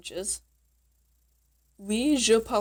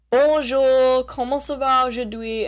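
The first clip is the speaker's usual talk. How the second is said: hearty greeting; 4 semitones higher, 5 dB louder than usual. Acted. Voices someone greeting the learner.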